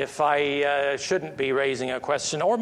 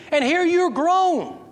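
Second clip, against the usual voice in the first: incredulous high outburst; 14 semitones higher, 5 dB louder than usual. Real, not acted. Preacher to listeners, mocking the absurdity, high incredulous outburst. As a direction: voice jumps way up, half disbelieving. Incredulous rhetorical question to congregation.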